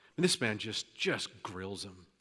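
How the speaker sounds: ordinary talk, nothing marked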